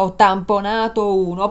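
usual speaking voice

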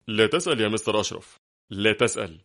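usual speaking voice

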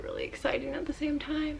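soft unvoiced whisper. Real, not acted. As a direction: whisper it to yourself. Quiet aside while fitting wig.

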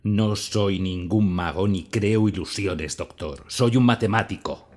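loud, indignant self-defence; ofendido. Acted. Ofendido, se defiende ante el doctor. (ofendido y tajante)

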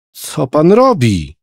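put-on a terrified boy pleading with the killer; frightened question. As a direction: ask in fear with a blade at the neck. Knife at boy's neck.

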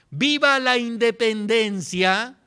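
high, loud, slow cry of independence; rally the crowd with a shout. Retold or imitated. Hidalgo shouts to the people, loud and slow rallying cry. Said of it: "cuando Hidalgo grita".

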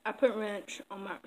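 talking with a mouthful of food; mouth full. Real, not acted. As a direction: say it around a bite of food. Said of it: "I'm talking with my mouth full".

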